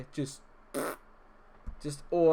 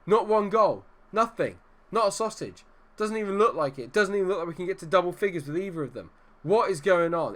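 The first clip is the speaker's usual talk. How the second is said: loud, higher angry disbelief; angry rant; 5 semitones higher, 5 dB louder than usual. Real, not acted. Manager fuming at strikers who cannot score, loud and higher. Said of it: "can't remember being this angry".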